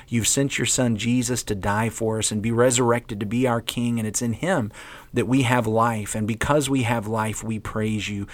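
earnest spoken prayer. Acted. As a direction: pray it out earnestly. Leads a closing prayer.

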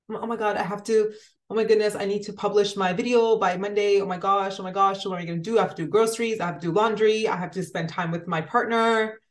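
imitating her own frantic self, rushing through the list; hammed-up overwhelmed worrying, speeding through chores; mock panic. Acting out her own panic over a video deadline, mock frantic. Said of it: "I'm already freaking out".

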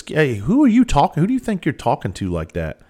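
angry dad demanding respect; alpha male bark. Retold or imitated. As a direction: assert dominance over the kid. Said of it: "I go to alpha male presence".

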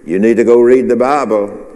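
clear, firm prompting from above; Holy Spirit's voice. Acted. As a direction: urge it openly, at full voice. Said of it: "the Holy Spirit say to you".

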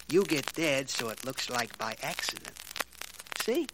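menacing threat. Acted. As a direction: lean in and threaten him. Thug threatens dentist.

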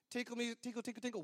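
soft, dainty patter of "tinkle"; tinkly music imitation. Bridesmaids' processional music starting, soft tinkling imitation. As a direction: mimic light tinkling notes softly. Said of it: "now it's tinkle music".

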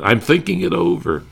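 dry comic hesitation; Benny's deadpan reply. Retold or imitated. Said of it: "then Benny says".

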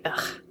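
annoyed ugh. Retold or imitated. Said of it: "I'm just like".

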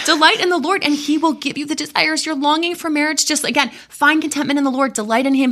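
mocking the Coke-machine reading of the verse; mock glib advice. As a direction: parody the easy promise people quote. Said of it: "basically to say".

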